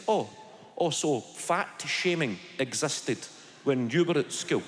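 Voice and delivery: lightly imitating a serious schoolkid; slow, earnest kid asking; deadly serious, slow. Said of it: "deadly serious and he said".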